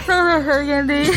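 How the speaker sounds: laughing through a mouthguard; wearing a mouthguard. Real, not acted. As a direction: giggle around a mouthguard. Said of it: "with his mouth guard in".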